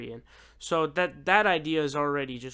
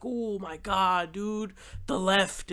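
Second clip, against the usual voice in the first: whiny online guy; 2 semitones higher, slower than usual. Retold or imitated.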